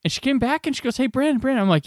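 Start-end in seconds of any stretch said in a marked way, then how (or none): 1.0-1.6 high put-on voice calling a name; imitated calling over. Screener returning to fetch him, high imitated call. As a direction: get his attention, imitating her higher voice.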